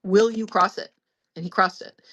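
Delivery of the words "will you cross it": slow, deliberate line-drawing challenge; retold harsh ultimatum. Daughter setting a boundary with father, mildly harsh. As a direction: lay it down slowly and firmly. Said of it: "because I was so harsh".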